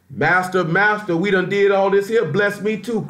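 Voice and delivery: a hint of a desperate son begging; begging Esau. Esau begging father for blessing.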